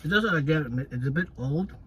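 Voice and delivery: talking with a mouth full; words round a bite of food. Real, not acted. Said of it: "let me not talk my mouth full".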